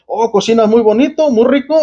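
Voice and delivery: imitando un halago, con tono más agudo; elogio imitado. Retold or imitated. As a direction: halaga como quien imita a otros, en voz aguda. Imita a quienes elogian otra cocinera. (elogio fingido, tono alto)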